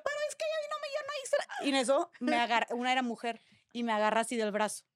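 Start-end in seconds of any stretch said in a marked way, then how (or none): 0.0-1.7 much higher, softer whiny protest; a small high plea that fades into softness; retold pleading. Insisting to the guards she did nothing, a high soft whine. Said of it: "Y yo".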